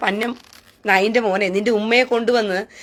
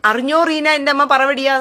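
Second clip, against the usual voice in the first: higher and louder mocking gossip; 4 semitones higher, 3 dB louder than usual. Mocking commenters blurting their secret to Reena, loud. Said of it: "രഹസ്യത്തിൽ പറയാൻ ഉദ്ദേശിക്കുന്നതാ".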